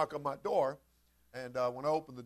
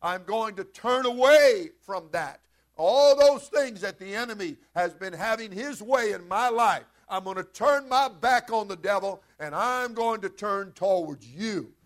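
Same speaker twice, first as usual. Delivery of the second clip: earnest vow to God; 3 semitones higher, 7 dB louder, slower than usual. Acted. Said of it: "you're to tell God".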